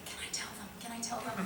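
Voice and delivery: soft, half-whispered mock begging; imitating a daughter's quiet plea; pleading child, hushed. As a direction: ask it like an eager secret-keeper. Daughter begging to share secret.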